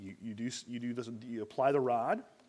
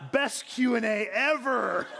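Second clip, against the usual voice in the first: higher and louder, slow laughing quip; 9 semitones higher, 8 dB louder, slower than usual. Real, not acted. Teacher jokes about the one-question Q and A, laughing. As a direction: laugh it out as a joke. Only a joke question asked.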